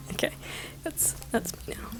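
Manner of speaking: hushed note to self; whispered aside. Real, not acted. Narrator remarks on own character voice, hushed aside. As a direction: whisper it under the breath.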